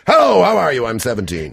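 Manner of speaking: high, loud start, mock teen greeting; mocking teenager voice. Host mimics a seventeen-year-old guest's greeting. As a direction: send up a posh teen. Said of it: "so it's a bit more kind of".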